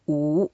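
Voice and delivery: 无 with a rising pitch; second tone. Shown as a demonstration. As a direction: glide upward through 无. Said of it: "second tone".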